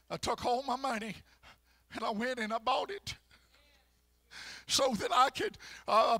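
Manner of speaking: preacher playing a humble woman offering ointment, loud; a lightly voiced pleading woman; the sinful woman pleading.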